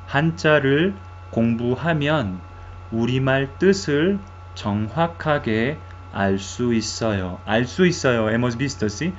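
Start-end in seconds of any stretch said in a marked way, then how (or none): 0.1-7.4 "한자를 공부하면 우리말 뜻을 정확하게 알 수 있어요" in longer phrases with short pauses; pronunciation model. Shown as a demonstration. Teacher repeats the new sentence for learners, "한자를 공부하면 우리말 뜻을 정확하게 알 수 있어요" in careful phrases.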